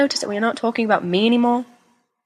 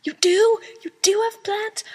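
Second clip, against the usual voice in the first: whisper. Acted. Breathless aside to James.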